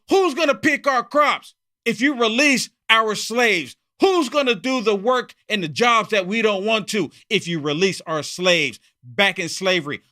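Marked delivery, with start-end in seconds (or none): 0.1-8.8 mocking slaveowner. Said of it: "Back in the slavery days".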